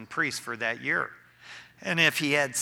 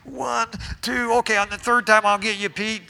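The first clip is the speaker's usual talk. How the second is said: mock casual Jesus; 6 semitones higher, 7 dB louder than usual. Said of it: "Jesus wasn't sitting there going".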